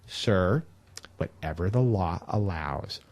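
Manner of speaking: low, slow, soft smirking reply; a condescending brush-off from the aide; placating politician's aide. Retold or imitated. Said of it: "the way he said".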